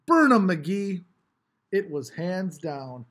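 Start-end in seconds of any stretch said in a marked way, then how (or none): 0.0-1.0 loud, slow, drawn-out cheer; one voice rising over the crowd; a kid on a car roof shouts to McGee, loud and slow; lone shout. A narrator's reading. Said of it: "a single voice separated".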